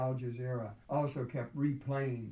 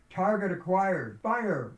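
higher, louder gunnery call; urgent combat command, voice raised; shouted military order; 5 semitones higher, 6 dB louder, slower than usual. A narrator's reading. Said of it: "ordered the commanders in every tank".

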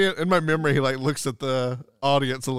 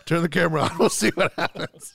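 amused, laughing quote; laughing through it; 3 semitones higher than usual. Retold or imitated. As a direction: chuckle through the words.

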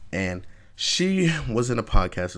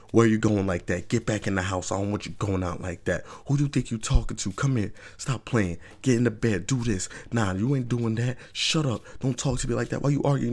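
mock domineering boyfriend giving orders; lightly voiced controlling guy, rising; bossy bad boy; 2 semitones higher than usual. Man ordering his girl around, mock bossy. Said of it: "they want that person to".

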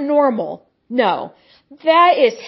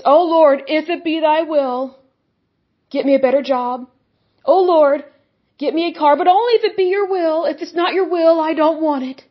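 wimpy whiny prayer; 2 semitones higher than usual. Retold or imitated. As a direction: imitate a timid, whiny believer. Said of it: "wimpy, whiny prayers".

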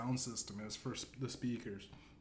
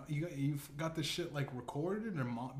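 ordinary talk

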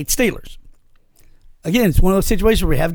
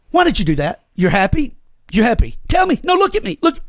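higher, pushy mock wife voice; a hammed-up insistent wife; mimicking the nagging wife; 6 semitones higher than usual. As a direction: badger him to look at you. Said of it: "the last thing I want her to do".

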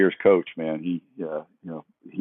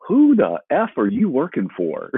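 laughing mock anger; 9 semitones higher, 4 dB louder than usual. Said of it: "he goes".

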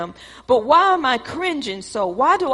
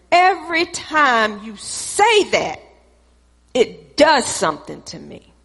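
accusing tone. Retold or imitated. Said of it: "the tone that I come at him with is".

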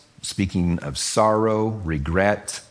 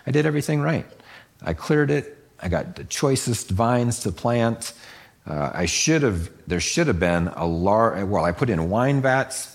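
frustrated vine dresser; 4 semitones higher than usual. Retold or imitated. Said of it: "the vine dresser in the parable here is".

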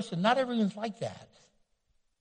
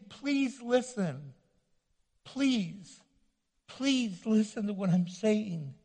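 begging; 4 dB quieter, slower than usual. Retold or imitated.

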